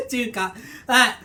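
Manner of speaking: loud excited Southern hollering; excited Southern accent. Pretend. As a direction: whoop it up like a country boy. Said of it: "do the Southern accent".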